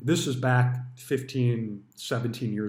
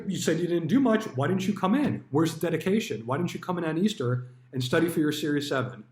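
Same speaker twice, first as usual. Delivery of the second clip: higher, faster mock lecture from the boss; berating manager; 4 semitones higher than usual. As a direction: needle him about dedication like a pushy manager. Manager berating lack of dedication.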